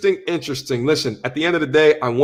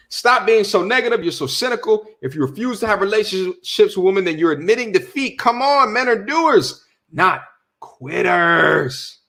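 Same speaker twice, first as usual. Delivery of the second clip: mock scolding lecture; 3 semitones higher than usual. Mocking scolding women's lecture.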